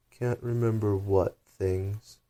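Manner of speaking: slow and drawling creature; slow caterpillar voice. Acted. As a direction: drag the words out lazily. Caterpillar's voice in the story.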